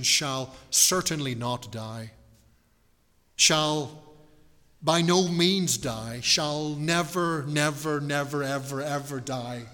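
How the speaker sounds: slow, every "never" leaned on, building; emphatic repetition. Acted. Preacher assuring the congregation they shall never die, slow and emphatic. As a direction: hammer each "never" like a promise. Preacher hammering the promise home.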